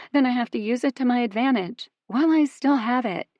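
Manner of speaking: loud, hurt and frustrated; upset outburst. A narrator's reading. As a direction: let the hurt spill out loudly.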